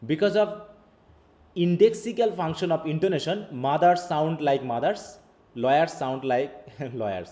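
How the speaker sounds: reads each English word out slowly; careful, slow read-aloud; slow textbook reading. Acted. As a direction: dictate it word by word to the class.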